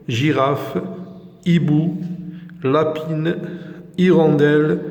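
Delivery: words said one by one with a rising tune; review drill. Shown as a demonstration. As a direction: list them out clearly for the class. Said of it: "je répète la prononciation de ces mots". (قراءة واضحة للكلمات كلمة بكلمة)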